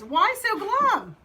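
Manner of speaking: high, loud, drawn-out query; mysterious new character. Acted. Stranger asks the frog what's wrong, high and drawn out. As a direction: stretch it out in a storybook voice.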